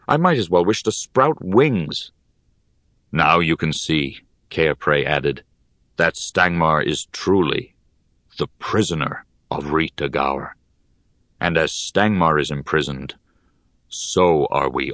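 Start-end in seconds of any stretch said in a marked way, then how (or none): 3.1-4.2 put-on low, calm old mentor; wise old teacher voice. Cairpray speaks, low voice. 6.0-14.9 put-on low, calm old mentor; wise old teacher voice. Cairpray speaks, low voice.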